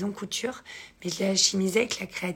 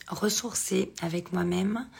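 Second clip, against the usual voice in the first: slow hoarse whisper; raspy whisper. Real, not acted. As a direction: voice almost gone. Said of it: "j'ai une extinction de voix".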